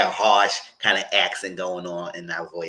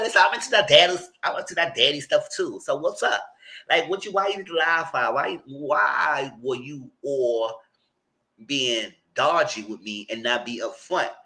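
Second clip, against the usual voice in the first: friend; 5 semitones higher than usual. Retold or imitated. Friend confronting the man.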